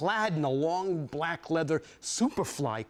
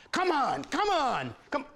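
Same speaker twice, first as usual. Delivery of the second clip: growl; 10 semitones higher than usual. Retold or imitated. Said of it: "a different voice now, a growl".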